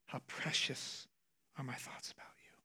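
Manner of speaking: softly whispered voice of God. Acted. Pastor voicing God's still small voice, whispered. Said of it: "God whispers in his very still small voice".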